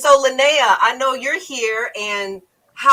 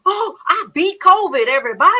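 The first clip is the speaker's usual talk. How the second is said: imitating an excited friend, higher and louder; mock triumphant shout of news; 8 semitones higher, 5 dB louder than usual. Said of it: "And he was so excited".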